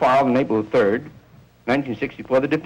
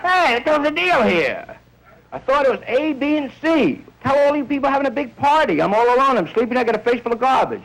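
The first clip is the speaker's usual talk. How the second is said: outraged complaining guy; 9 semitones higher than usual. Acted. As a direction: complain pitched way up. Guy wakes up in garbage.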